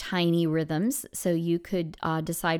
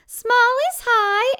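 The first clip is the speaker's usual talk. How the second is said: very high, louder and slow; high squeaky voice; 6 dB louder, slower than usual. Shown as a demonstration. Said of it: "So it'll be like".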